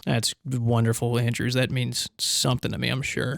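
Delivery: flat faked gratitude; dry sarcasm. Real, not acted. Hero answering the councillor's praise with dry sarcasm.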